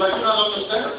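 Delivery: mock Indian-English accent; puzzled store clerk with a put-on Indian accent. Indian clerk answers the customer, baffled, in an Indian accent. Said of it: "You know how they talk like that?".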